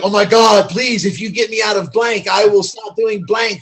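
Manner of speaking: loud, rushed template prayer; fill-in-the-blank prayer. Retold or imitated. A user bargaining with God every time, mock prayer. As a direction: rattle off the same old deal with God. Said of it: "that's how my prayers were".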